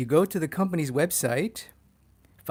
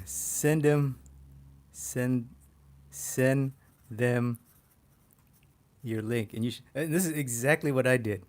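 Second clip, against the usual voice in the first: ordinary talk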